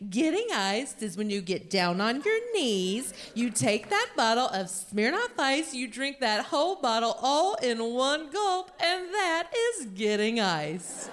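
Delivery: lightly voiced sweet Midwestern woman. Midwestern woman explains the drinking game, sweetly. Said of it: "This very sweet Midwestern woman".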